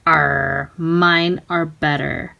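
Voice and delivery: mild mock pirate boast, drawn out; pirate yell. Pirate boasting to his shipmate, mild low pirate voice. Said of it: "yelled one".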